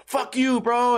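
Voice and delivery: high, mock belligerent voice; arguing drunk buddy. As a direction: imitate a drunk picking a fight. Repeats the arguing drunk friends.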